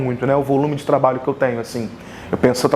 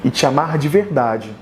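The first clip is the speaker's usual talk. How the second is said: declamação de poema em frases curtas, com pausas; poesia improvisada; 2 semitones lower than usual. Real, not acted. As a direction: recite como um poema de amor, pausando entre os versos. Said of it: "através de uma poesia que eu vou improvisar". (declamação poética pausada)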